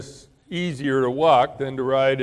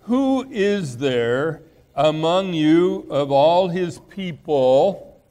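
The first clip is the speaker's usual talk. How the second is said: slow, deliberate reading of the verse; solemn scripture voice, drawn out; slower than usual. Acted. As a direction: read it out slowly like holy writ. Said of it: "He said".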